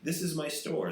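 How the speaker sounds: imitating a homeless guy's store rant, mild mock yell. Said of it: "That's what they yell".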